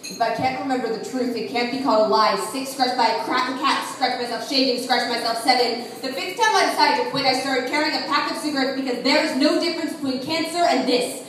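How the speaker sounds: poetry recitation building in urgency and force; intense spoken-word poem. Acted. Poet counting scars for an audience, building, insistent slam delivery. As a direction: let the confession gather momentum, driving through the list.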